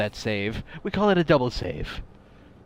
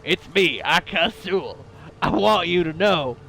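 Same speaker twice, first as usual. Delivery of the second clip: Texan drawl; 2 semitones higher than usual. Retold or imitated. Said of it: "a voice like a Texan".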